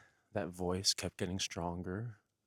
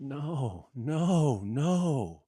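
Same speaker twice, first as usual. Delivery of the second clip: panicked refusal; 4 semitones higher, 5 dB louder, much slower than usual. Acted.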